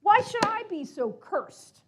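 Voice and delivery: a jealous man railing at his fate; ranting. Acted. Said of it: "he started to rant and rave".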